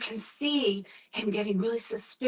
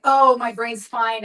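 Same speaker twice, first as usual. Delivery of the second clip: dismissive son; 7 dB louder than usual. Retold or imitated. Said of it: "He's like".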